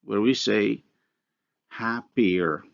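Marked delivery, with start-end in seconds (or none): 1.7-2.6 HAPPIER with a Y glide separating the two final vowels; inserted glide. Shown as a demonstration. Lecturer showing students a similar process in English, inserted glide. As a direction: say HAPPIER carefully as "happy-yer". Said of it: "look at the glide".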